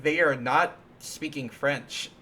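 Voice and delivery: slow, puzzled kid's objection, lightly voiced; childhood protest. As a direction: spell it out like a confused child. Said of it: "and I'd be like".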